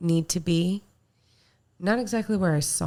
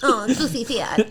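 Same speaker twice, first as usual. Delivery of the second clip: higher, louder teasing whine; mock sad voice; 4 semitones higher, 5 dB louder than usual. Co-host teasing the sad friend, laughing mock sadness. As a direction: imitate a self-pitying friend through laughter.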